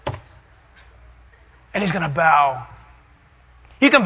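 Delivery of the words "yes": very high gloating shout; shrieking triumphant yell; unrestrained victory cheer. Acted. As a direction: cheer wildly, holding nothing back. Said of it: "We're not gonna hold it down".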